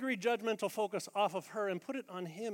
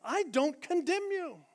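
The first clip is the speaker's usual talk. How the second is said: slow, higher "I don't condemn you" with weight on "I"; stress on I; 7 semitones higher, 4 dB louder, slower than usual. Shown as a demonstration. Pastor voicing Jesus forgiving the woman, stressing I. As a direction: lean on "I" and stretch the line. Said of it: "That's the mercy and grace".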